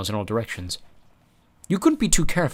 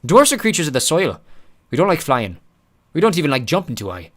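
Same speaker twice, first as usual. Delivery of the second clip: nervous; 6 semitones higher, 6 dB louder than usual. Acted. Mulch nervous.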